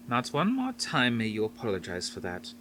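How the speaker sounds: put-on mild scolding with a faint Dutch accent; gently scold, faintly Dutch. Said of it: "scolded in her faint Dutch accent".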